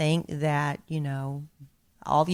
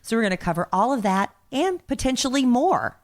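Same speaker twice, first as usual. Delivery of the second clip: exaggerated cartoon intonation. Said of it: "why are you talking like that? You don't usually talk like this".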